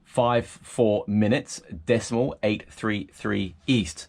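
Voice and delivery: slow, spaced-out radio readout; slow radio call. Shown as a demonstration. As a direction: read each digit slowly for the coast guard. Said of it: "You would say three nine degrees".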